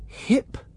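"Hypnotist" said softly in three clear parts; three syllables. Shown as a demonstration. Host recalling the word on the son's paper. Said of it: "written down in three syllables".

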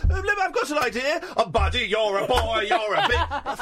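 flounce in high and camp, darling; high Freddie. Retold or imitated. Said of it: "Freddie comes in late, like, high".

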